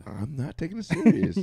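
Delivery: said with a smile; smiling voice. Real, not acted. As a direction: grin while you say it. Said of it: "You can hear my smile in my voice".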